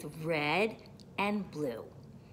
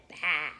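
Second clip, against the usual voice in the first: punched, lower sheep bleat; sheep baa; 4 semitones lower, 5 dB louder than usual. A narrator's reading. Sheep greets the truck, short baa. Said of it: "Sheep said".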